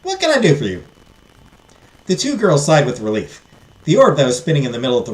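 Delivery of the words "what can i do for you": fairy godmother in a higher Southern voice; Southern-accented fairy offering help. Acted. Fairy godmother greeting two girls, Southern accent. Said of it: "give her a southern accent".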